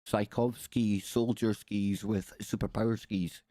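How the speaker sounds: mock Russian. Shown as a demonstration. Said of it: "add an ovski to the end, it sounds kinda Russian".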